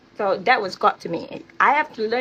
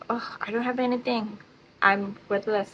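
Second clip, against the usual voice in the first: self-pitying; 6 dB quieter than usual. Retold or imitated. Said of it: "I'm like".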